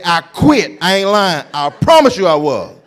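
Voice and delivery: loud, panicked I quit; scared quitting. Retold or imitated. Frightened usher about to quit over the walkie-talkie. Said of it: "I was so scared".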